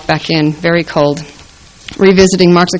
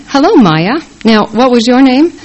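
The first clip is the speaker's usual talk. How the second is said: high, lilting friendly greeting; beaming greeting; 6 semitones higher than usual. A narrator's reading. Nursery leader greeting a family she barely knows, beaming. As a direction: beam it at a half-remembered acquaintance. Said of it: "she beams".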